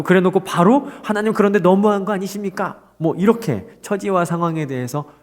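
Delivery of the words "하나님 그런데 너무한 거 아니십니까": pitched-up mock complaint; a light grumbling plea; lament to God. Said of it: "이렇게 한탄할 수 있죠".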